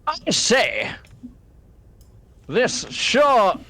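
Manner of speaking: high, hammed-up posh Victorian gent; Victorian gentleman. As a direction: play a befuddled Victorian gentleman.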